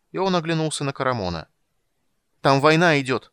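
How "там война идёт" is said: loud, higher outcry; passionate shout. A narrator's reading. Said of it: "страстно выкрикнула Тика".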